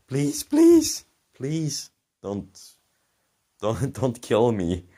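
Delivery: retold high, frantic plea that sinks back down; tearful begging. Boy on his knees begging the chasing driver, retold crying plea. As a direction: beg for your life, starting in a squeak. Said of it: "start crying".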